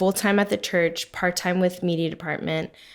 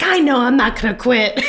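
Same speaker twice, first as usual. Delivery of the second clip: laughing; 6 semitones higher, 6 dB louder than usual. Real, not acted. Retelling call with pastor, laughing.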